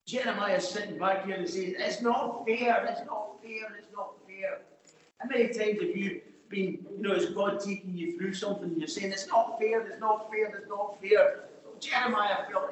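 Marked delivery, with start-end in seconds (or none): 1.8-4.6 mock complaining. Jeremiah sitting back protesting to God, mock complaining. 9.1-11.5 insistent repeated protest, lightly acted; mock complaining. Believer being taken through something by God, mock complaining.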